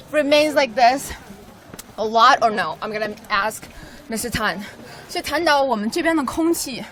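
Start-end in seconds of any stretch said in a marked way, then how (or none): 5.1-6.8 out of breath. Real, not acted. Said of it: "I'm sort of out of breath".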